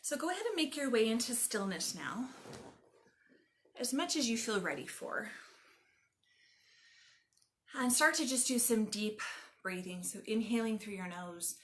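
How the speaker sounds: calm, measured meditation guide with long pauses; guided meditation. Acted. Yoga teacher leading listeners lying on the ground, guided meditation. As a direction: guide them gently into stillness, phrase by phrase.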